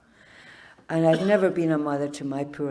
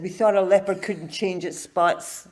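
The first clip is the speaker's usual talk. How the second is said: imitated cultured Jamaican accent, slightly raised; 4 semitones higher, 4 dB louder than usual. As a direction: put on a refined Jamaican accent. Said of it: "his cultured Jamaican accent".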